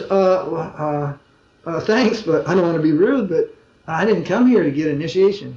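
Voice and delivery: imitating someone hedging, with stumbling starts; polite, hesitant refusal. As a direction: stammer through an awkward, polite no. Acting out her polite refusal.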